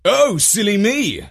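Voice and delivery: high, loud self-mocking exclamation; exclaiming. A narrator's reading. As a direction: exclaim it as if caught forgetting. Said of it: "exclaimed Jeff".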